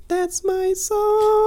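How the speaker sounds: squealing high fan voice; excited fan. Retold or imitated. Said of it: "someone's like".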